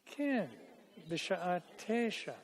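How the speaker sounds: Rachel's line modelled. Shown as a demonstration. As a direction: lift the voice to model it. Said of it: "Try it".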